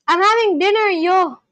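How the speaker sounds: retry the South African lilt, rising on dinner, yo last; attempted South African accent. Viewer retrying after a failed go, attempted South African accent. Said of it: "South African accent".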